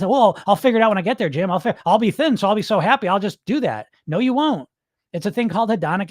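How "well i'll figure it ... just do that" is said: imitating dieters. Coach imitates his clients brushing him off, light mockery. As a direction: breezily parrot the dieter's excuse. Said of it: "everyone always says".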